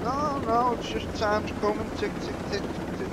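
high voice fading to soft ticking; needling film lawyer. Retold or imitated. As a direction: start pitched high, let the ticks die away. Voices the needling lawyer being evasive.

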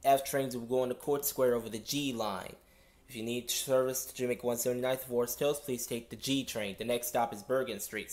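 conductor reading notices over PA; steady announcer drone through a speaker; subway announcement. Real, not acted. Conductor service change announcement.

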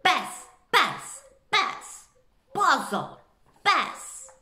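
shouting a warning. A narrator's reading. Jay warns the forest of the dog, loud. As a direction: warn the whole forest. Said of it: "A tak křičela".

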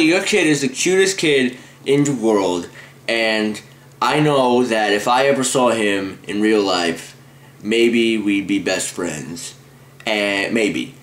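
slurred retainer speech; lisping through retainers; wearing a retainer. Real, not acted. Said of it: "my stupid retainer talk".

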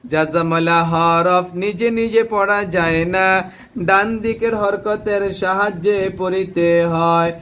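slow, measured rule for pupils; teacher reciting a rule for students to memorise; slow rule recitation. Shown as a demonstration. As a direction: recite the rule slowly so they repeat. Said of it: "teacher recites rule slowly".

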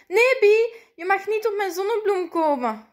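loud, high shout of protest; calling out. A narrator's reading. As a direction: shout to chase someone off. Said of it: "roept César".

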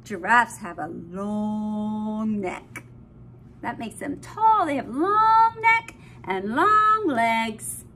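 slow, sing-song reading; reading to a toddler. Acted. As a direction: read it slowly like a lullaby. Reading picture book to toddler.

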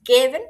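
"গেভেন" said loud with a hard g; g sound demo. Shown as a demonstration. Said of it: "গয়ের মতো উচ্চারণ হবে".

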